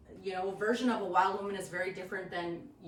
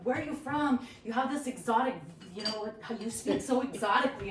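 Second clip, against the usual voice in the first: imitating curious strangers; 2 semitones higher than usual. Teller mimicking people who ask where she is from, lightly put-on curiosity. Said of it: "and people are like".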